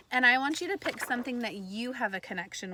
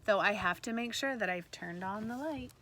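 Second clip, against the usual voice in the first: storybook read-aloud voice; story reading; 2 semitones lower than usual. Acted. Teacher reading a picture book to her class, storybook voice.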